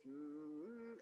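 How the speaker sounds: long, soft low "mm"; drawn-out cartoon filler hum; character hum. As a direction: hum like an animated creature. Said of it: "Gus might say the line".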